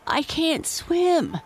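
high, slow, choked plea; choking in fear. A narrator's reading. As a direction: sputter it out in panic. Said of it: "he choked".

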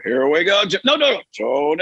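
Nance botching the line; flustered announcer correcting himself; Jim Nance impression. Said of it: "Nance would go".

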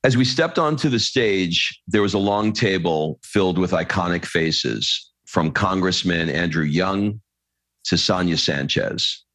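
measured storytelling read, calm and even; reading aloud. Acted. Host reading a moving passage to his guest, steady storytelling read.

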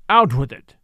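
sudden loud, forceful burst; violent demand. A narrator's reading. Derek pressing the dancer for an answer, violently. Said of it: "he said violently".

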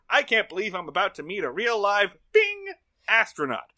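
high, loud retold excitement; acting out eager anticipation; super hyped. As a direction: gush like a thrilled fan. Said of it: "super hype".

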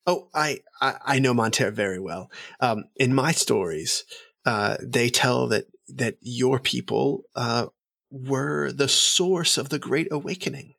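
high, eager noble voice; eager courtly elf. Acted. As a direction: gush politely at the emissary.

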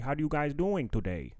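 a hint of a Midwest Wisconsin greeter; Wisconsin accent. Comedian imitating a YouTuber's light Wisconsin accent. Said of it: "with a Wisconsin accent".

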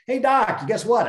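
mock excited. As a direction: play a proud kid bursting with news. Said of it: "You don't arrive at it and go".

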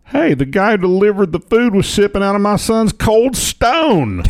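high, slow mock Indian accent. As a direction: put on an exaggerated Indian accent. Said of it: "This guy did not talk this way".

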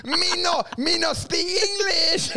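high, slow broken English through laughter; slow laughing mock broken English; broken English put-on. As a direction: laugh while playing dumb. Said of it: "and you go".

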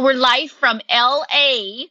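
slow, folksy Minnesota announcing voice; lightly voiced Tammy Faye opening a show; cheerful Minnesota accent. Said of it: "get me into character".

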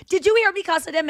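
high-pitched indignant appeal, no real volume; mock scream. Passenger appealing to other passengers, high mock scream. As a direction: imitate a woman screaming at bystanders. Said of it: "she's, like, screaming at other passengers".

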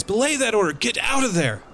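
high, urgent shouted command; captain shouting at crew climbing the crackling rigging, high urgent yell. Acted. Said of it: "And Captain Tristan goes".

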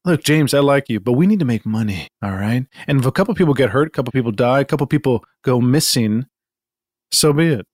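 low, smooth greedy boss; low sleazy boss. Acted. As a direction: talk him down low.

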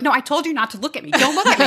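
high, laughing mock scold; hammed-up motherly don't look at me; insistent mom. Mom scolding girlfriend on Skype, high and laughing.

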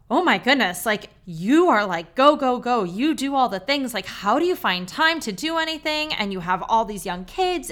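mildly acted astonishment, with bursts of emphasis; almost overwhelmed. Coach reacting to a client's packed health history, lightly overwhelmed. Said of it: "she was almost overwhelmed".

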